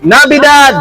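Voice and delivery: demonstrated shout. Shown as a demonstration. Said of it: "Tapos sisigaw kang".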